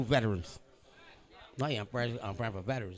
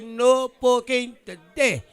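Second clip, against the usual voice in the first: spirit voice; 10 semitones higher, 11 dB louder, much slower than usual. Retold or imitated. Acting out a spirit's message.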